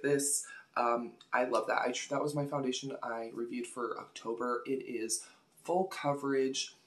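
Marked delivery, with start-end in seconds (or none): 4.7-6.7 talking around a hair in the mouth. Real, not acted. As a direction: speak with a stray hair on the lips. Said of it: "sorry, I got a hair in my mouth".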